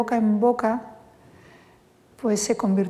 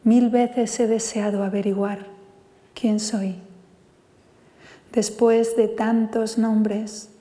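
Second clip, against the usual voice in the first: poem recital. Acted. A poet reads his poem Contigo to the audience, measured recital.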